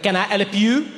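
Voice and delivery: curt, put-out offer of help; a clerk who is bothered you came in; mildly annoyed "Can I help you?" with a rising "you"; annoyed shop clerk. Retold or imitated. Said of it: "an annoyed voice behind me".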